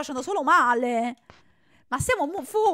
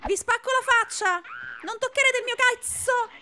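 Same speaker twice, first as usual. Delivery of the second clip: angry threat; 7 semitones higher than usual. Real, not acted. Threatening game enemies.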